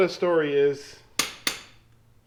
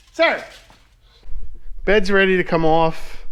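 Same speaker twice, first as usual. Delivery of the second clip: calling out; 3 semitones higher, 5 dB louder than usual. Real, not acted. Calling out to someone in shop.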